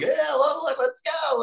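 high-pitched mock pep talk; imitated locker-room hype; hyped-up rallying. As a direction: push the voice way up to get him going. Acting out rallying a teammate.

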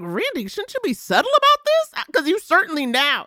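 laughing mock advice. Mock advising Randy while laughing.

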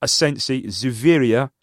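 light attempt at a Spanish accent. Shown as a demonstration. Cohost reads squad list on request, light Spanish accent. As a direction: read names in your best Spanish accent. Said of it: "best Spanish accent".

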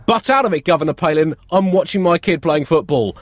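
irritated soccer dad brushing her off; annoyed parent. Retold or imitated. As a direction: snap at the nosy governor from the sidelines. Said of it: "You're probably gonna hear them say".

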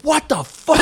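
high, indignant imitation; hammed-up affronted outburst; mock outraged coworker. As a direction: act out a tough guy's disbelief, voice jumping up. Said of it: "he's like".

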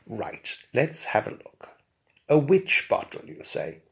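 stately, unhurried reply; Bunfrey's honeyed tones. Acted. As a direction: expert loftily answers the hairdresser. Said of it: "my honeyed, liquid, and highly well-pronounced tones".

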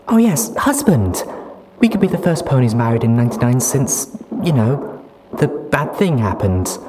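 put-on high, loud, giddy young mare. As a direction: chatter happily about the future. Duct Tape giddy chatter.

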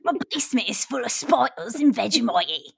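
high-pitched, exaggerated Australian accent; hammed-up Aussie impression, breaking into laughs; mock Australian accent. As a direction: put on a silly Australian accent. Mimicking an Australian cast member's lines.

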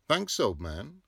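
high loud friendly call; cheery thanks. Acted. Heinz calls cheery thanks to Bloom. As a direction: toss the thanks back brightly.

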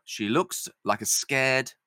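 slow, measured narration; stage-direction narration. A narrator's reading. Narrator describes Lizzie to fellow actors, slow measured reading. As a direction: draw out the description, pausing before the last word.

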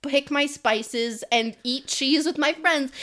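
building from high pleading to loud, high insistence; hammed-up exasperated plea for a simple life; playful reluctant-hero whine; mock protest.

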